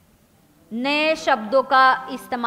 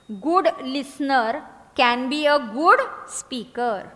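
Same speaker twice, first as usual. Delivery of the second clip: each word stretched far apart; very slow dictation; much slower than usual. Shown as a demonstration. Teacher repeating the motto very slowly for writing. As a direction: drag it out word by word. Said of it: "listening के आगे लिखो".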